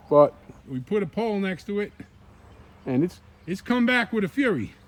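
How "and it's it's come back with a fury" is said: breathless after pruning; winded, pushing words out; out of breath. Real, not acted. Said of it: "I'm out of breath".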